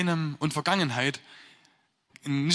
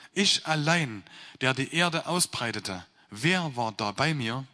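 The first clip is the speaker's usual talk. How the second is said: measured, solemn reading of the Bible text; scripture reading. Acted. Preacher reading Isaiah to the congregation, solemn scripture reading. Reads Isaiah passage aloud.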